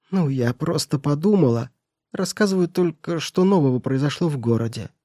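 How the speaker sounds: put-on sly old woman. Housekeeper feigns innocence.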